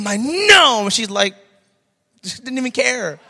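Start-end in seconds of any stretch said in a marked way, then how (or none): 0.2-0.8 loud, high parental no; yelled refusal. Retold or imitated. Father stopping daughter at the outlet, retold yell. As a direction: shout it to stop a child.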